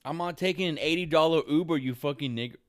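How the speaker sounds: loud, furious outburst at nobody; angry shout. Real, not acted. Venting about an eighty dollar Uber, shouting in fury. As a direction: blow up, yelling it out. Ranting about needing a ride.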